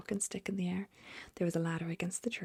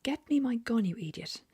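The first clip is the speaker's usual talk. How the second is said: higher and louder furious cry; angry shout; 6 semitones higher, 6 dB louder than usual. Acted. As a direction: yell it at the gardener. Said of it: "the Duke was shouting".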